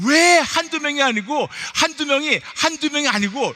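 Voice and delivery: loud, high exasperated pulpit delivery; exasperated preaching rant. Acted. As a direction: pile up the grievances with full preaching force. Preaches a mounting list of grievances.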